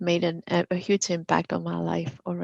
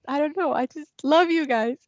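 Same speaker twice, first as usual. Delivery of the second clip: loving tearful explanation; 8 semitones higher than usual. Retold or imitated. Mother explains her tears to family.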